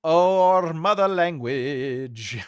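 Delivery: loud, very drawn-out English; grandly stretched put-on English; mock English accent. Streamer teasing about the mother language, mock English accent.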